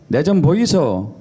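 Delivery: slow Gyeongsang accent; Gyeongsang dialect. Shown as a demonstration. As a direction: call it out in Gyeongsang dialect, unhurried. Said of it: "경상도".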